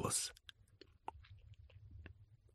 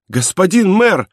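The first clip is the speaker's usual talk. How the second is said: high, drawn-out cry of alarm; 9 semitones higher, 4 dB louder than usual. A narrator's reading. Sick woman calls to the mayor, alarmed high cry. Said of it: "закричала Фантина".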